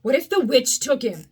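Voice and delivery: breathless, worried rush of words; a scared puppet fearing for his cat; frightened gasp. Acted. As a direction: fear spilling out in a stammer. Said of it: "Pinocchio gasped".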